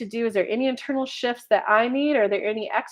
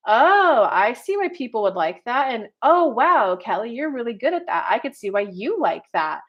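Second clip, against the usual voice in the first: impressed mom. Retold or imitated.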